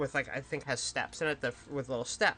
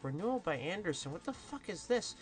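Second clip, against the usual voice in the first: exasperated rant; 4 semitones higher than usual. Retold or imitated. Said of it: "and I was like".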